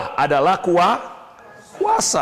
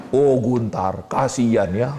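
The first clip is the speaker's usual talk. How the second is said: a hint of a lazy sympathetic God, lower; mildly mocking, lower pity; 4 semitones lower, slower than usual. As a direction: lightly voice God's shallow pity. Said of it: "Bukan berarti Bapak ngomong begini".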